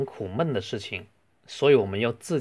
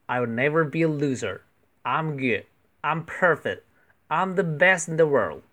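with feeling; 3 semitones higher than usual. Shown as a demonstration. Teacher rereading the phrases with feeling, rousing. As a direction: pump yourself up, mean every line. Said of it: "可以再用感情读一次".

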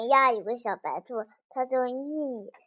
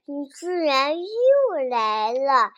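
ant king scolding; 4 semitones higher, 6 dB louder, slower than usual. Acted. Ant king confronts the bunny.

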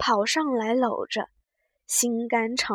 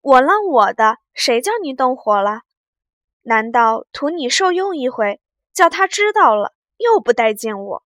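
teasing laugh from outside; 2 semitones higher, 9 dB louder than usual. A narrator's reading. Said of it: "平儿在窗外笑道".

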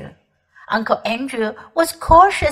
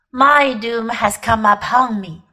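horribly calm; 3 semitones lower than usual. Acted. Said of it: "in a voice of horrible calmness".

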